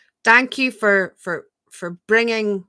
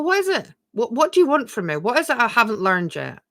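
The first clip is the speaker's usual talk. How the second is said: higher, searching questions to yourself; inner questioning; 5 semitones higher, 3 dB louder than usual. Shown as a demonstration. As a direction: ask gently, as if to your own thoughts. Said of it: "you can just sit and go".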